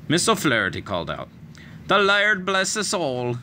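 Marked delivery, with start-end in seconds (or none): 1.9-3.4 whispered blessing. A narrator's reading. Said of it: "Annie whispered".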